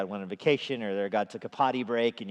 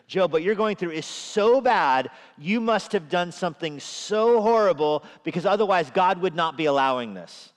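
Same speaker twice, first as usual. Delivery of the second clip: lecturing friend of Job; 6 semitones higher, 6 dB louder than usual. Retold or imitated. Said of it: "Think of the logic of Job's friends".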